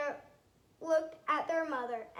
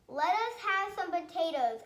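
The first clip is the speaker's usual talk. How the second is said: calling out; 4 semitones higher, 5 dB louder than usual. A narrator's reading. Soldiers call over the wall.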